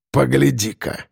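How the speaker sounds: said through teeth. A narrator's reading. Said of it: "процедил грач".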